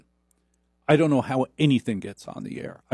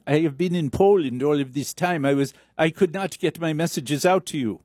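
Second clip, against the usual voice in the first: mock European accent; 4 semitones higher than usual. Acted drama, foreign character.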